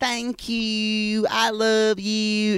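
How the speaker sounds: high, slow Southern drawl, stretching out you. Describing a TV character to listeners: Madison's Southern accent. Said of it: "Madison's accent is like".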